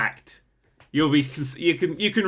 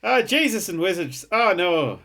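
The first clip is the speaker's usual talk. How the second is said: higher put-on Irish lament; mock Irish accent; 4 semitones higher than usual. Friend joins in as the shocked Irish folk, mock Irish accent. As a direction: try a playful Irish accent. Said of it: "Matt's Irish accent is worse than mine".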